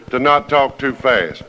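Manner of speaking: slow, careful pace so folks can follow; deliberately slow. Real, not acted. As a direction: ease off the speed on purpose. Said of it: "I'm gonna do everything I can".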